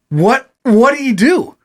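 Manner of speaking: mock worried girlfriend asking what happened; alarmed girlfriend. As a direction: voice her confused and alarmed. Girlfriend voiced, alarmed question.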